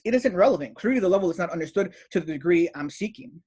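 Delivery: reading out a reply with mild self-importance; egotistical. Retold or imitated. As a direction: quote him as a touch superior. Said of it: "Notice his ego here".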